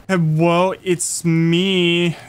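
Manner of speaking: playful put-on little voice; mock-timid small voice; little helpless one. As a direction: plead like a tiny harmless thing. Pretending to be little and harmless.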